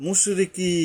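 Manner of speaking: মুশরিকি with the final ই drawn out; মুশরিকি, long final ই; elongated vowel. Shown as a demonstration. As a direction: stretch the last vowel of মুশরিকি. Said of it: "ইয়ার উপরে একালিপ টানতে হবে".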